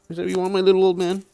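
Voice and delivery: fast, high doggy talk. Real, not acted. Cooing to her pug.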